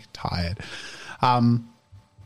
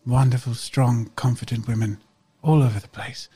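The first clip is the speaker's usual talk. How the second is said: lightly voiced, earnest reply; hopeful young character; 2 semitones higher, 5 dB louder than usual. Medela answering Catalina's farewell, hopeful and earnest. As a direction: give a measured, sincere answer in character.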